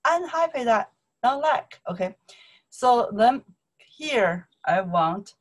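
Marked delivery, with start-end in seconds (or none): 0.0-1.8 annoyed busy student. Pretend. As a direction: wave the pest away, exasperated. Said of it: "You can say".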